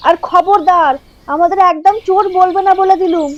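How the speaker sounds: indignant retort. Acted. Caught thieves retort angrily.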